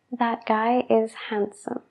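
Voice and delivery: That guy is handsome whispered, handsome as hansom. Shown as a demonstration. Teacher whispering the relaxed version of the sentence. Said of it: "cuando hablamos rápido".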